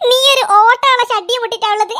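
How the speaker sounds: laughing out the words. Acted. Pointing at his torn underwear, laughing. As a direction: blurt it out mid-laugh. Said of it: "എന്നാടാ ഇതിന് മാത്രം ചിരിക്കാനുള്ളത്?".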